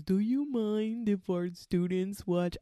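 slow, loud and singsong polite ask; sugary staff voice. Retold or imitated. Hospital staffer sweetly asks the patient about students, slow and singsong. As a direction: put on a saccharine hospital voice.

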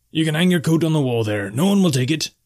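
high-pitched, friendly innkeeper; high-voiced tavern keeper, at ease; hospitable barkeep. A narrator's reading.

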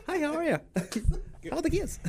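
very high, phony service-desk voice; fake customer service. Former worker showing off their customer service greeting, fake high voice. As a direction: pitch it way up, put-on niceness. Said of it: "my fake customer service voice".

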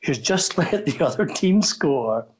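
chuckling through the words; amused, laughing lightly mid-line; kind gentle laugh. Real, not acted. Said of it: "I'm not laughing at you".

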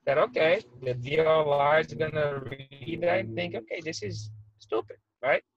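glitching audio. Real, not acted. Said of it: "I was starting to lose you there".

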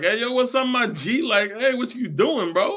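squeaky droid talking like a street bro; a comic little droid, very high and chummy. Retold or imitated. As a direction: pitch way up and play the cool bro. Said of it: "I G eleven's like".

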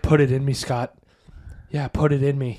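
sultry oven. Retold or imitated. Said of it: "The oven was like".

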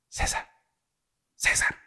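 hushed urgent calling of a name; soft calling. Retold or imitated. Boy gently calling his sleeping brother in the dark. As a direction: call his name softly so only he hears.

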